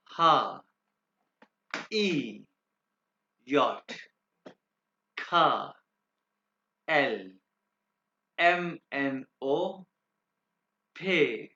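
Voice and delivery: each letter alone, drawn out with falling tune; German alphabet demo. Shown as a demonstration. Teacher models the alphabet for pupils, isolated German letter names. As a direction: recite German letter names one by one, long pauses between. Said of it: "alphabets पढ़ूंगा आपके सामने दो दफा".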